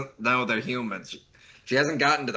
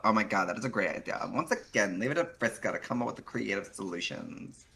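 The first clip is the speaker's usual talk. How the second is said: put-on Valley Girl voice; 2 semitones higher than usual. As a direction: play a smug Valley Girl. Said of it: "very good Valley Girl voice".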